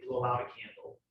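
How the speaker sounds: slow, soft, fading voice. Shown as a demonstration. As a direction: ease down to a hush. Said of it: "slowly, softly, quietly".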